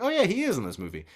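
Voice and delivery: quick, offhand oh yeah of remembering; mild realisation. Retold or imitated. Recalling forgetting Statham, mild quick surprise. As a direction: toss it off as a small realisation. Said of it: "And I was like".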